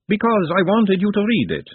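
high-pitched lady's voice; Ladyship's voice. A narrator's reading. Ladyship explaining the book to Nut, high-voiced.

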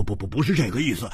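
quick, stammered denial; hurried denial. Acted. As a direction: blurt the denial out fast, stuttering on 不. 慌忙否认，第一遍. (慌忙结巴地否认)

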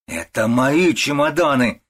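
slow, loud, insistent yell; mother-in-law yells grabbing the suitcase; shout. A narrator's reading. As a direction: hammer it out, yelling. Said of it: "кричит свекровь".

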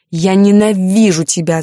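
loud hateful yell. Acted. Heroine screams hatred at Alexander, loud yell. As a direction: hurl it at him. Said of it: "заорала я".

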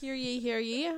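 proclaiming like a town crier. Pretend. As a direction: call the court to order. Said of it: "Judge Cadence is in session".

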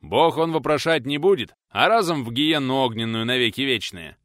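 loud hellfire warning; fervent doom-saying; preachy warning. Acted. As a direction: thunder it like a village preacher.

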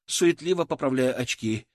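ordinary delivery, nothing marked

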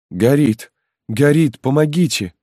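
high, loud panicked cries; a terrified mother screaming for help; wringing her hands, a mother begs for rescue; desperate plea for help. Acted. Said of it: "молила, ломая руки, бедная мать".

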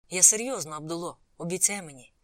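earnest, with a loud, forceful start; insistent plea. Acted. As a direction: press a friend for a promise. Presses friend for a promise.

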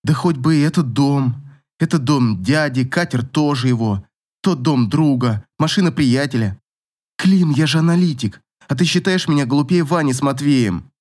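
insistent Katya. Acted. Katya challenges Klim over the house.

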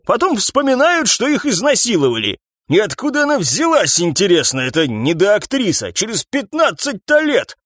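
high, ranting boss voice; indignant old captain. Acted. Captain wagging finger at Morris, high indignant rant. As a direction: scoff at the accusation.

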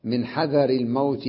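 slow, measured poetry reading; verse recitation. Shown as a demonstration. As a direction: recite metrically, drawing out the long vowels. (إلقاء شعري متمهل)

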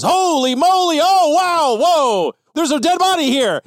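loud, high startled cry at a body; shocked exclamation. Acted. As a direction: shout it out in shock, pitch way up. Cop finds body, exclaims.

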